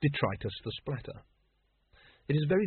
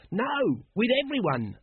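pitched-up shouted character reply; mild shout; 11 semitones higher, slower than usual. A narrator's reading. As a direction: cry it out high, without full volume. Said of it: "shouted Nobby".

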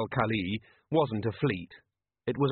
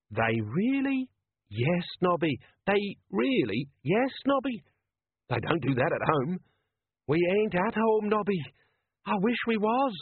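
horrified Nobby; 8 semitones higher than usual. A narrator's reading. Nobby's horrified whispered exchange.

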